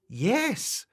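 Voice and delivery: high, perky yes; cheerful. Acted. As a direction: answer brightly as a friendly creature. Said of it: "said the wobbler cheerfully".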